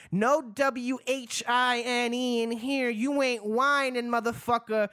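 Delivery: high, slow hype-man delivery. Acted. Hyped wine cast pun.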